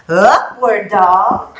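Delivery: UPWARD DOG stretched out slowly; unhurried pose cue. Shown as a demonstration. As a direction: draw out UPWARD, then DOG. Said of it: "gonna do it a little faster".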